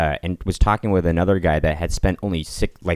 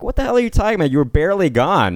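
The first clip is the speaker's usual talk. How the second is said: higher-pitched incredulous retort; mock indignation; 9 semitones higher, faster than usual. Answering a guy bragging about abroad, higher incredulous tone. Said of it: "I was like".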